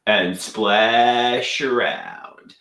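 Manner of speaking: slow, drawn-out Brooklyn come-on; fake Brooklyn accent. Trying to impress a supermodel, fake Brooklyn accent. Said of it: "I'm really putting on the accent".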